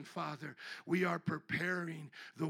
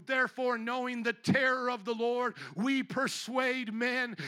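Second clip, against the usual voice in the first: raised preaching; 4 semitones higher, 5 dB louder than usual. Real, not acted. Preacher quoting Paul, rising.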